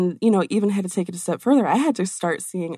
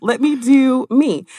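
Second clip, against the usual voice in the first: mock defiant retort; 6 semitones higher, 6 dB louder than usual.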